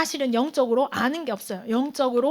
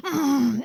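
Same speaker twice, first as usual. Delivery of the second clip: father's wordless hum; much slower than usual. Retold or imitated. Father answers his crying son, wordless hum. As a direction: imitate a father only humming in reply. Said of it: "그러니까 그 아버지는".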